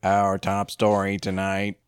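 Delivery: robot newsreader. Pretend. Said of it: "Stephen Hawking machines deliver the news".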